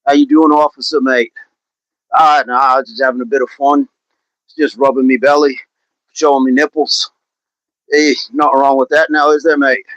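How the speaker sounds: put-on Australian accent, casual; Aussie accent. Streamer imagines greeting police officers, playful Aussie accent. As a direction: play an innocent Aussie chatting to a cop. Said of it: "should I just go full Aussie accent?".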